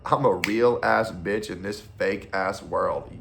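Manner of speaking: slow, sassy quote delivery; quoting a sassy woman. Retold or imitated. Quoting every black woman ever, slow and sassy. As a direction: drag it out with attitude. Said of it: "to quote every black woman ever".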